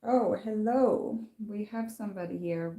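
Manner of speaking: talking with mouth full; words round a bite of French toast; cheeks stuffed full. Real, not acted. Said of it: "I talk with my mouth full".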